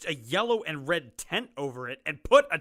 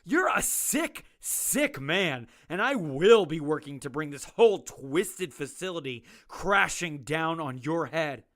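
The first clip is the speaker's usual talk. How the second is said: seething, rising angry threat; 3 dB louder than usual. Acted. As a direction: spit the threat at him. Doctor threatens the warden.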